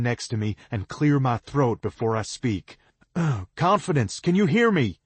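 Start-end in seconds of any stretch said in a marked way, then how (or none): 3.6-5.0 loud, high shout down a cliff. A narrator's reading. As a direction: call her name hard so she hears. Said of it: "I shout down".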